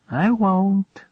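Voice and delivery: a high, light reply with a smile; smiling. Acted. Farmer promising Prospero, said smiling. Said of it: "said the farmer, smiling".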